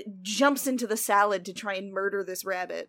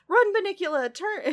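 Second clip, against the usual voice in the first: high, loud cheering yell; retold yell; 9 semitones higher, 5 dB louder than usual. Dog yelling at the rabbit to run, loud and high. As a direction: shout encouragement to the fleeing bunny. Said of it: "Harold literally yells".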